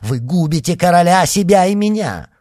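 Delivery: loud, high panicked cry; frightened cry. A narrator's reading. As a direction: cry out in cowardly fear. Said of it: "этот крик, вырвавшийся из трусливой души".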